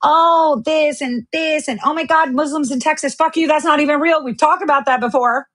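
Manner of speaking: a hint of mock panic; mocking online chatter. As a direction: parody the panicking crowd. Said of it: "stupid ass shit like".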